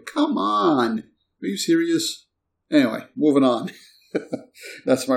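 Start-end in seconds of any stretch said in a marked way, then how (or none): 0.1-2.3 exasperated disbelief. Real, not acted. Exasperated at the player feud.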